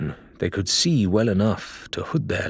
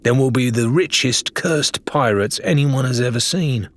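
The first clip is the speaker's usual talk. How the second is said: snapped; 3 semitones higher than usual. Acted. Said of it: "she snapped".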